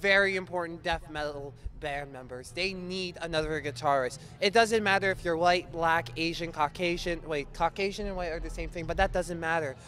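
mock charity appeal. Host begs viewers to help the band, mock-earnest appeal. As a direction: plead on the band's behalf like a TV appeal.

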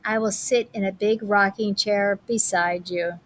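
gentle storybook read-aloud; reading to children. Acted. Teacher reading a picture book to her class, gently.

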